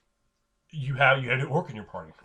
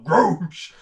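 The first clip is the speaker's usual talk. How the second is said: loud, higher, drawn-out roar; orc battle cry; 4 semitones higher, 9 dB louder than usual. Acted. Orc defends his halfling friend, battle cry. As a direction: bellow it like a war cry.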